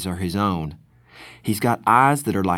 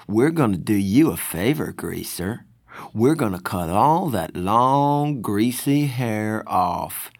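slow, sneering tough guy; taunting greaser; slower than usual. Acted. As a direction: drawl the threat like a bully.

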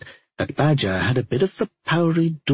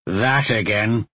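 gruff snort; slower than usual. Acted. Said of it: "Badger snorted".

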